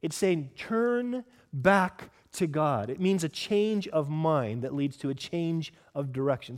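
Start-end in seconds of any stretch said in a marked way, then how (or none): 0.5-2.9 hopeful. Shown as a demonstration. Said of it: "It's a hopeful world".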